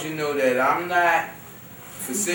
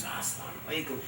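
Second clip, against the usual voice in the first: much softer, gentle greeting; calmed, respectful; 4 semitones lower, 14 dB quieter, much faster than usual. Retold or imitated. Brother greeting him years later, soft and respectful. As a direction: say it politely and low-key. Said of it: "he had calmed down".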